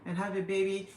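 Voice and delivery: put-on complaint of a disgruntled commenter; mimicking iffy commenters. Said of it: "they were just iffy about it".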